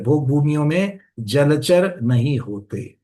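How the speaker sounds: slow, deliberate restatement of भोग भूमियों में जलचर नहीं होते; teacher drilling the point home, slowly; slow emphatic repeat. Shown as a demonstration. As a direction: spell it out slowly so they remember. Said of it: "इस बात को भी याद रखता है".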